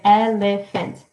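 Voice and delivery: elephant said slowly in three beats; syllable by syllable. Shown as a demonstration. Teacher confirming three syllables, syllable by syllable. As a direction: spell out the beats, e-le-phant.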